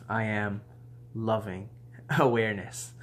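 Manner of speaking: soft affirmation breaking into a laugh; quiet, amused mantra; laughing softly. Shown as a demonstration. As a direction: let a laugh slip through. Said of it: "you're gonna start laughing".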